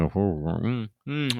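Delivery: mumbled Western grunt. Shown as a demonstration. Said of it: "You don't open your mouth".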